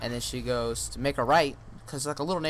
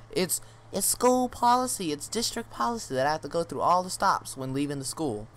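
lightly imitated bus driver, pitched up at first; mock defensive driver; 4 semitones higher than usual. Retold bus driver defending herself.

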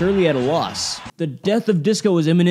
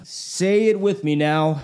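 hype man; slower than usual. Retold or imitated. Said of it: "crowd-working hype man routine".

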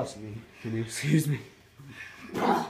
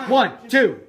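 loud pin count, higher; referee count; 8 semitones higher, 10 dB louder than usual. Pretend.

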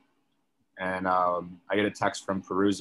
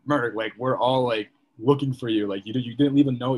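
ranting; 3 semitones higher, 4 dB louder than usual. Retold or imitated. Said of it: "After my whole rant".

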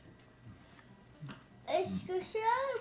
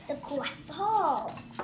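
mock French accent; 5 semitones lower, 5 dB quieter, much slower than usual. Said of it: "This is my move for France".

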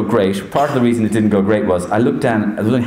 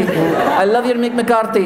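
Mourinho impression, drawn out; 12 semitones higher, slower than usual.

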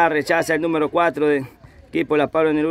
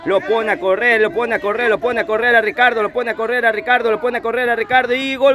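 rising, fast, the pitch climbing toward the goal; building excitement; 4 semitones higher, faster than usual. Real, not acted. Jugada de gol en curso. (narración que sube, rápida y aguda)

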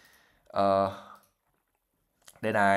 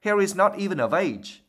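mock mother voice; 7 semitones higher than usual. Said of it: "in a high-pitched voice that sounded uncannily like his mother's".

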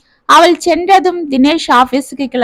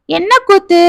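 put-on high, puzzled boy asking what he means; puzzled question; 7 semitones higher than usual. A narrator's reading. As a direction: ask it baffled, pitch jumping up. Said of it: "என்று புரியாமல் கேட்டான் ராகுல்".

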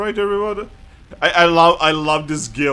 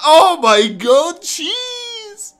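high, loud, slow shrieking through laughter; laughing shriek; 12 semitones higher, 6 dB louder, much slower than usual. Real, not acted. Gamer shrieking with laughter at a randomized Pokemon. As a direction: screech it out while cracking up.

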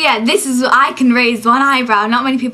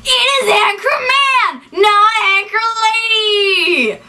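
a line from Anchorman, delivered much higher; mock film quote; 7 semitones higher than usual. Redoing an Anchorman clip for the camera, mock film delivery. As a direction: play the Anchorman scene with a higher pitch. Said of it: "redone by me".

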